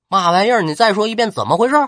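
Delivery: loud, high what-did-you-say; can't believe his ears; shocked disbelief. Acted. 刘备惊闻赵云投曹. (刘备不信，惊问)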